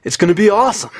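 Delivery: high, loud, stretched surfer voice; surfer dude. Retold or imitated. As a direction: hype it like a beach bum. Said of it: "the voice of a surfer dude".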